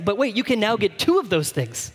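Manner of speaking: a hint of an infomercial sales pitch. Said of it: "do you guys ever see that infomercial".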